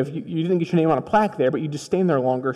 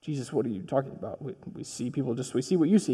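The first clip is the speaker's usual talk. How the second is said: puzzled disciples; 4 semitones lower, 10 dB quieter than usual. Acted.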